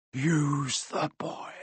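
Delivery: slow, soft, otherworldly hiss; a ghostly voice from inside someone else; slow, soft, sinister command; eerie disembodied voice. Acted. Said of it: "a voice answered".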